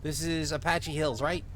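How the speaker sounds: put-on small-town cop with a light Minnesotan accent; lightly Minnesotan lawman taking charge; vaguely Minnesotan accent. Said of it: "give him a vaguely Minnesotan accent".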